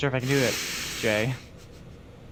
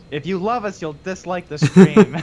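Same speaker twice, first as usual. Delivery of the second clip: laughing loud plea; 5 semitones higher, 10 dB louder than usual. Real, not acted. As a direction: burst out loud while laughing. Joking plea to viewers.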